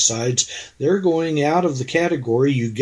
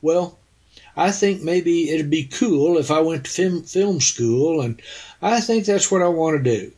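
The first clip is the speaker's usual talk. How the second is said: hesitant; 4 semitones higher than usual. Pretend. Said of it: "I didn't say".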